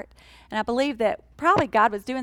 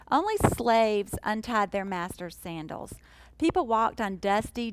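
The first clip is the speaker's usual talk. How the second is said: ordinary talk, nothing marked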